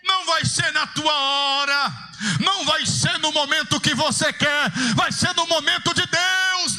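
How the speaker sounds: impassioned pulpit preaching, rising to shouts; full-force preaching. Acted. Pastor urging the church to keep crying out, in full-force preaching. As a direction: preach it hard, building to a cry.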